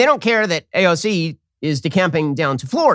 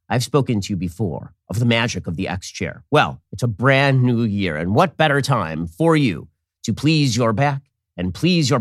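lower, steady sponsor read; 4 semitones lower than usual. Acted. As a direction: sell the chair, smooth and lower.

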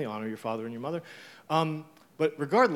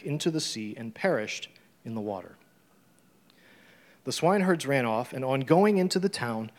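scripture reading; 4 dB louder than usual. Acted. Reads scripture aloud.

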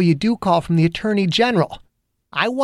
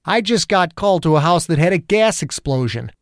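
building heated cop rant, pitched up; angry rant; 6 semitones higher than usual. A narrator's reading. Angry detective venting at the federal agent. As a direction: vent the whole bad day at him.

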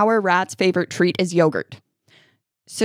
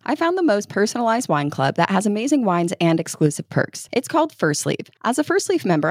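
upbeat host-read sponsor spot. Acted. Podcast host reading a wine club ad, ad read voice. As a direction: sell the wine club like a friendly recommendation.

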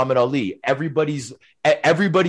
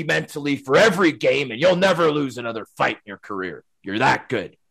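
Larry Mavety impression; 2 semitones higher than usual. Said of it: "my best Larry Mavety impression".

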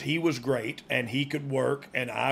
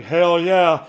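shouted crowd "Hell yeah"; loud cheer; 3 semitones higher, 10 dB louder than usual. Retold or imitated. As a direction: roar it like a wrestling fan.

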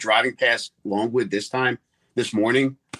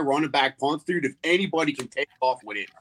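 reporter voice; 4 semitones higher than usual. Pretend. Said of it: "Let's hear it".

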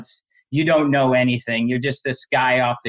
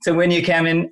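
ordinary delivery

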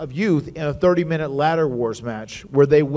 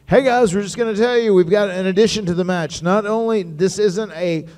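higher, excited announcement voice; Mark Carrano announcing; 6 semitones higher than usual. Retold or imitated. Manager announcing a new team to the wrestlers, higher and excited. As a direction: hype up the surprise addition. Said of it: "He says".

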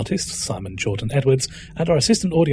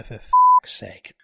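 very high, slow frustration; exasperated squeak; 7 dB louder, much slower than usual. Real, not acted. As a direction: squeak it out in despair. Frustrated after flubbing.

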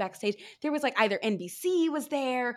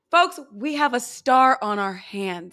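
mock announcer; 7 dB louder, slower than usual. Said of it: "She's like".

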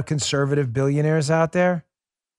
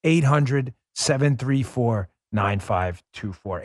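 slow number read; slower than usual. Shown as a demonstration. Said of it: "Let me say that number again".

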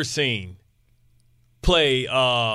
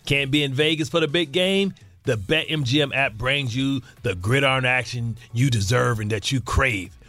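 measured sponsor read; scripted radio commercial delivery. Acted. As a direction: read the betting ad copy deliberately. Reads the sponsor ad.

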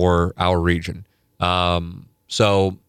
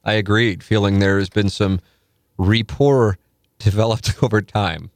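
reading a listener's story aloud; 2 semitones higher than usual. Acted. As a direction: read the submitted story with a bright lift. Reads erotic story aloud.

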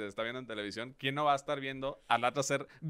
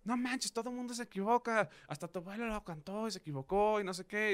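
mock teasing warning; 7 semitones higher, 3 dB quieter than usual. People telling him everyone messes up.

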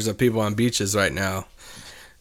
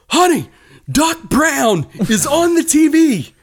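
high, loud and slowed, calling out in disbelief; stunned pretend shout, drawn out; mock excited shout; 5 dB louder, slower than usual. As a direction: pretend to yell to your wife across the room, much higher. Imagined shocked call to wife.

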